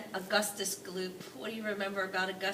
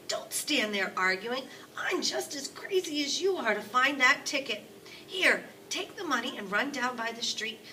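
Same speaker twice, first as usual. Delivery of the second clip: put-on higher, louder urgent old man; eager grandpa; 4 semitones higher, 6 dB louder than usual. Grandpa Joe sending Charlie to the store, eager. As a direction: hurry the boy off.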